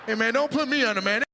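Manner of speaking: hammed-up begging not to be put under; mock panicked patient. Patient begging before anesthesia.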